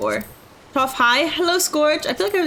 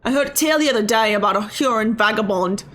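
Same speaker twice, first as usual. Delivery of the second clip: put-on wobbly British accent sliding into Australian; storytelling in a muddled British-Australian accent; British turning Australian. Game character passing on a tale, British accent drifting Australian. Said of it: "Why is this turning Australian?".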